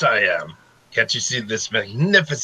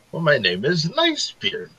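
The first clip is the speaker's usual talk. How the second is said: higher boastful pirate; proud pirate; 7 semitones higher than usual. Pretend. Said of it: "player voices pirate character".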